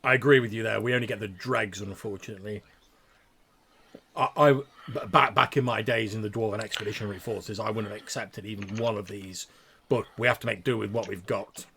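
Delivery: put-on loud, stiff old soldier; proud dwarf sergeant, keeping his temper; dwarf drill instructor.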